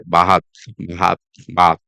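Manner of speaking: BATH stretched to 'baaht'; long A. Shown as a demonstration. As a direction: demonstrate bath with a long 'ah'. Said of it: "use a long A".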